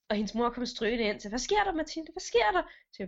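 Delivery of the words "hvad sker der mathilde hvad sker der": higher, worried questioning; alarmed mother. Retold or imitated. Mother rushing in to Mathilde, higher and alarmed. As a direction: ask like a startled mum.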